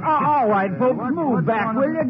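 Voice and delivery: calling to crowd. Acted. Sheriff clears a crowd.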